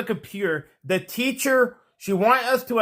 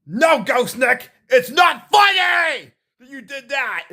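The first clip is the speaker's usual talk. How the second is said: slow, higher-pitched telling-off; mock scolding; 4 semitones higher, slower than usual. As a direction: imitate someone scolding him. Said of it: "I would get scolded like".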